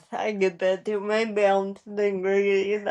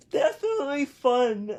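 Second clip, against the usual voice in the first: laughing; 2 semitones higher than usual. Real, not acted. Laughing while answering.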